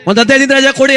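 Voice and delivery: high, pleading plea for leave; pleading servant. Retold or imitated. Servant begging officer for leave.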